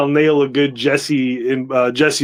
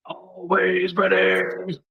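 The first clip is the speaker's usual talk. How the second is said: teasing drawl; 3 semitones higher, 7 dB quieter, much slower than usual. Acted. Playful echo.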